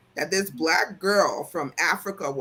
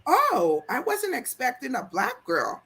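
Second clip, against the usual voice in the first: higher-pitched imitated surprised coworker; mock surprise; 6 semitones higher than usual. Coworker meeting the new boss Agatha, mock surprise. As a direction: put on a taken-aback coworker's raised pitch.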